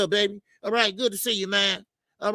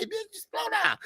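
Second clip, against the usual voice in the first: retold snap; 14 semitones higher, 5 dB quieter than usual. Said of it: "I didn't mean to say it like that".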